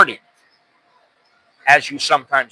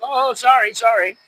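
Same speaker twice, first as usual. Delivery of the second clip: high, softened retold apology; mock apologetic; 6 semitones higher than usual. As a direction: imitate a meek, hasty sorry. Acted apology to the yelling man.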